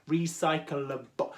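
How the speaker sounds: very slow "Recyclable", syllables pulled apart; careful pronunciation. Shown as a demonstration. Host struggling with a difficult word, careful pronunciation. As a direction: pick through "Recyclable" slowly. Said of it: "very difficult word to say".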